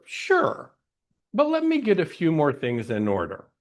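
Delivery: stalling agreement. Acted. Speaker voicing people who postpone joy, mock agreeable stalling. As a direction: agree brightly on the first word, then stall. Acts someone putting off joy.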